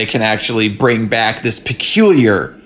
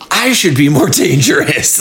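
mock brooding vow; 3 semitones higher than usual. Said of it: "he takes that and goes".

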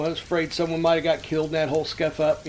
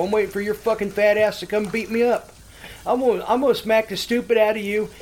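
higher-pitched goading of a phone victim; retold taunting; 4 semitones higher than usual. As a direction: taunt him, daring him to come over. Taunting the caller over the phone.

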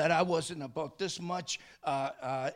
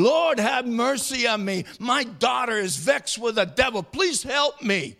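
raised, mildly urgent plea; imitated pleading; 4 semitones higher, 3 dB louder than usual. Preacher voices mother begging Jesus for daughter, pleading. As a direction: voice a mother begging for help, pitched up.

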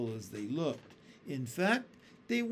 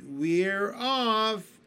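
excited cry; 5 semitones higher, 6 dB louder than usual. A narrator's reading. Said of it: "the others cried".

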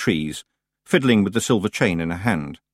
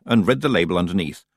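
ordinary delivery, nothing marked

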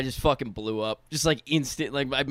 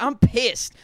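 mock angry; 9 semitones higher, 6 dB louder than usual. Retold angry outburst.

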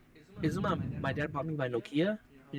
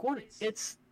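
higher-pitched mock argument with mom; acted protesting son; 6 semitones higher than usual. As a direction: argue back like a kid making excuses. Acts out arguing with mom.

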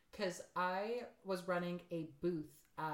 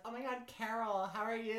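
lightly voiced Midwestern mom, a bit higher; 4 semitones higher than usual. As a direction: imitate a chatty mom greeting a friend. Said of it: "Midwestern mom voice".

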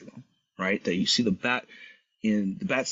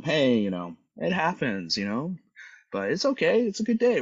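upbeat, higher-pitched reassurance; retold soothing; 8 semitones higher, 3 dB louder than usual. Bystander to upset man at gas pump, easing tension, soothing. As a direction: talk a tense stranger down lightly. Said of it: "bring it down a tense".

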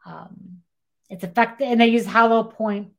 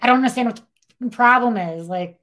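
higher, louder, fast and impatient; exasperated demand; 4 semitones higher, 8 dB louder than usual. Retold or imitated. Girlfriend scolding her boyfriend over the failed plan, impatient and louder. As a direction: snap at him to just figure it out. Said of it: "And she's like".

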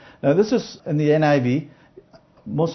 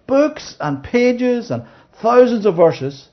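slow, drawn out listing; 8 semitones higher, 3 dB louder, much slower than usual. Real, not acted. Stressing the huge amount.

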